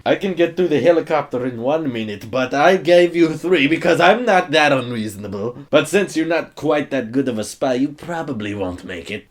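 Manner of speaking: smug bad-guy accent, hammed up; bad Monologue Man accent. Reviewer mocking the movie villain in a bad accent. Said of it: "bad Monologue Man accent".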